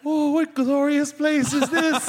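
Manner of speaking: high, slow Shakespearean wonder; old-fashioned grand voice. Retold or imitated. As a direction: declaim like a stage actor. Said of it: "she was like".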